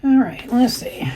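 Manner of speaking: half-whispered mutter while searching; muttering to self. Real, not acted. Host searching for viewer messages, muttering to herself. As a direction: murmur it to yourself, barely voiced.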